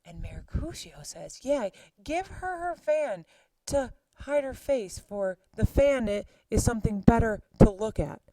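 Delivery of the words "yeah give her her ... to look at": mocking tease. Mercutio mocking the nurse.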